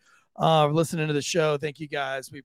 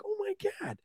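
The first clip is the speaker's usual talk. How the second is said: breathy gasp of dismay; 12 dB quieter than usual. Retold or imitated. Realising child is alone.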